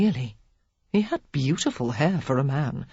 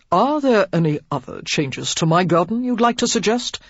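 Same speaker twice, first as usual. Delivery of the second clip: suppressed violence; 3 semitones higher, 4 dB louder than usual. A narrator's reading. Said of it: "humming with suppressed violence".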